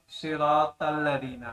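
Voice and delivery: صراط الذین said slowly, with a heavy ط in صراط; slow recitation demo. Shown as a demonstration. Tajweed teacher demonstrates the heavy ط slowly. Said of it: "موٹا نہیں کریں گے".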